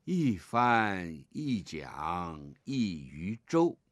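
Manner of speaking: slow, evenly spaced recitation; poem recitation. Shown as a demonstration. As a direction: read each image out slowly like a teacher. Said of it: "第一句". (慢速朗读古诗)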